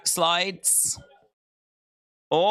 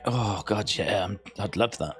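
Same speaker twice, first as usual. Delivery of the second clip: swooning woman; 9 semitones lower, 4 dB quieter than usual. Retold or imitated. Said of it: "the women are like".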